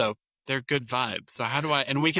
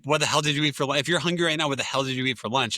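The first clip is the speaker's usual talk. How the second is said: exasperated parent snapping, louder; not said kindly; 3 semitones higher, 3 dB louder, faster than usual. Shown as a demonstration. Parent scolding a hungry kid about lunch, annoyed and louder. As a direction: let the irritation bite on what the hell. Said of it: "I don't say that kindly".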